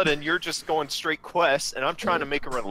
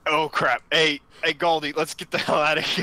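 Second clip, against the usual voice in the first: alarmed; 3 semitones higher, 3 dB louder than usual. Acted. Fleeing the guards.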